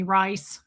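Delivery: put-on "rice" said with a Tennessee accent; Tennessee pronunciation. Father calling his child "rice", Tennessee pronunciation. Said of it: "Sounds like rice".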